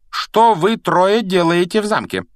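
high, loud challenge from a distance; stern calling out. A narrator's reading. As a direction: call out sharply to the children. McGonagall calls from afar.

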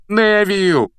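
high, loud exasperated cry; angry outburst; exploding in anger. A narrator's reading. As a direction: burst out with the name. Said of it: "взорвался Рон".

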